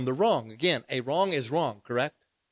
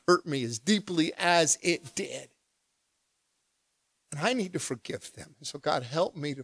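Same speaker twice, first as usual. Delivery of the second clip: sincere prayer. Retold or imitated. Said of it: "my prayer begins to say".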